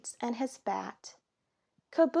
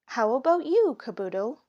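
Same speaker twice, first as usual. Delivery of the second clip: accusing question; 2 semitones higher, 5 dB louder, faster than usual. Acted. Daddy quizzing Caboodle about the baseballs, louder. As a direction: press the second suspect.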